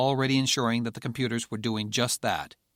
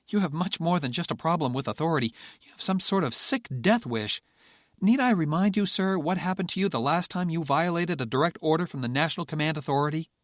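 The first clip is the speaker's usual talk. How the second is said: berating; 6 semitones higher than usual. Acted. Furness berates the general.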